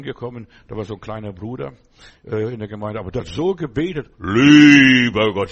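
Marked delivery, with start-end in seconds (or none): 4.2-5.5 slow, booming mock prayer voice; mocking a brother who prays with a deep voice; deep pious prayer voice. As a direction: drag out Lieber Gott in a deep churchy boom. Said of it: "so mit tiefer Stimme".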